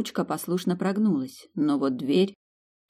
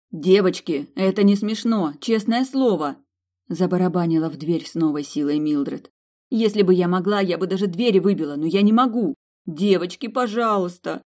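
pleading; 2 semitones higher, 3 dB louder than usual. Acted. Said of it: "Умоляюще, практически со слезами в голосе".

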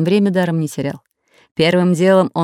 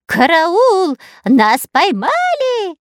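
wailing yell; 12 semitones higher, 3 dB louder, much slower than usual. A narrator's reading. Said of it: "завопил Дырка".

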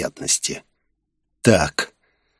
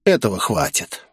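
plain reading voice

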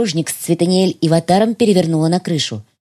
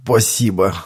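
frightened spy; 2 semitones lower than usual. Acted. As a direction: plead with a killer. Шпион Янис, низкий чужой голос. (испуганный шпион)

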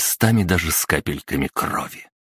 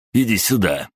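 higher, mocking bully call; taunting bully; 5 semitones higher than usual. A narrator's reading. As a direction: challenge him like a schoolyard bully. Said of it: "вызывающе крикнул Кубовский".

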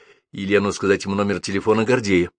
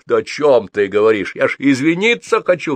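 loud, climbing exasperated protest; roaring; 5 semitones higher, 5 dB louder than usual. A narrator's reading. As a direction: roar back in self-defence. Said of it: "взревел Гордей".

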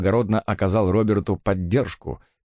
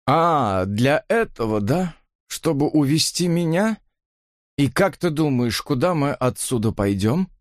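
raised, incredulous tipsy questions; scornful questioning; 5 semitones higher than usual. A narrator's reading. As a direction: question their plan with bitter scorn. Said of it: "Он произнёс это таким тоном". (с пьяной издёвкой)

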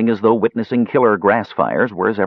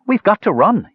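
high, louder panicked blurt; 13 semitones higher, 4 dB louder than usual. Acted. Panicky dwarf urging Tanis to flee, blurting high. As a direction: burst it out in fear. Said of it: "he blurted".

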